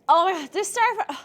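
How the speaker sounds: high, loud exasperated cry; frustrated outburst. Real, not acted. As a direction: vent the lost big hit. Frustrated after the wipe.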